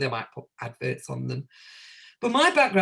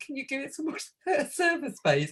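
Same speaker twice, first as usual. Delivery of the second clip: mock urgent plea; 9 semitones higher than usual. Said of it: "I was saying".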